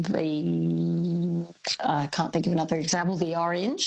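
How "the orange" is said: "the orange" with "the" as "thee", linked smoothly; the before a vowel. Shown as a demonstration. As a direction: run "thee" straight into "orange". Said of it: "So you can hear".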